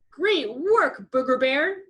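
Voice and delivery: high, loud cheering call; dad yelling praise at his daughter; proud dad yelling. A narrator's reading. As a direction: yell out praise from the sidelines. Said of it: "the professor yelled out to her".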